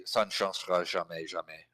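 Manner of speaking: "Ça ne changera jamais" with no gaps between the words; run-together French. Shown as a demonstration. Demonstrating spoken French with no gaps, words run together. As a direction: blend each word into the next, like spoken French. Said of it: "if I were saying that out loud".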